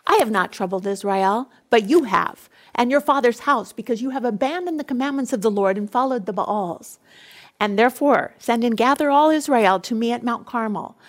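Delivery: loud, forceful prophet rebuking the king; stern rebuke. Acted. Elijah rebuking King Ahab, loud and forceful. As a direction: hurl the accusation back at him.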